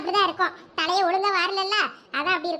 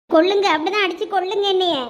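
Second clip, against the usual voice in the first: louder, bitter defiance; defiant cry; 2 semitones lower, 5 dB louder than usual. Acted. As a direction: dare her to go on. Daughter defiant while beaten.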